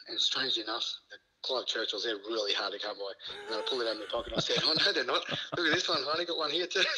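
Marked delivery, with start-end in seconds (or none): 4.6-7.0 laughing gloat. Retold or imitated. Gloating reveal of the medal.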